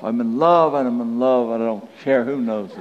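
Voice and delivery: mock-giddy declaration, starting livelier; lightly imitated lovestruck film character; guy in Elf. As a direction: gush it in a run, then tail off. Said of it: "like that guy in Elf".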